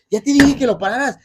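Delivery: loud, high, rapid-fire scolding; upset. Retold or imitated. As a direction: act out a grandfather losing patience with a child. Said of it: "And he got upset".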